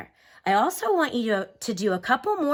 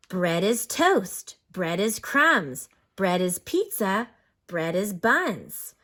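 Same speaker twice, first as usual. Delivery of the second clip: expressive read-aloud; slower than usual. Acted. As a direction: read each bread type like a little poem to the class. Teacher reads rhyming book aloud.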